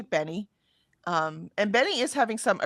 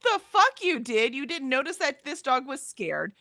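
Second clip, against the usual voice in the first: inner rant; 2 semitones higher than usual. Retold or imitated. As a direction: let the silent fury spill out. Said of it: "in my head, I'm like".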